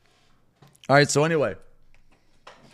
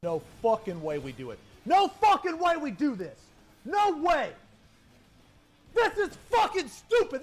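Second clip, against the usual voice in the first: 1 frustrated; 5 dB louder than usual. Real, not acted. Angry rant after a wipe.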